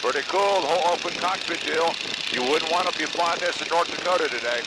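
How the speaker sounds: shouting in open biplane. Real, not acted. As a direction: call it out over the wind. Talking over engine in open cockpit.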